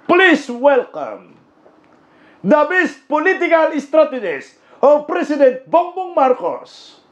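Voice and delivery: slow, drawn-out emcee announcement; mock emcee intro. Comedian mocking a rally emcee, drawn-out hammed-up intro. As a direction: hams up a grand welcome for the Speaker.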